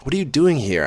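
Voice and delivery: high, acted tearful question; gasping between sobs. A narrator's reading. Crying woman to the man at her bedside, mildly tearful gasp. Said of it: "I gasp between sobs".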